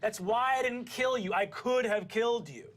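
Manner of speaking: high-pitched, heated insistence; indignant scolding. Acted. Witch reminding the rat she spared him, heated scolding. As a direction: insist on it, worked up.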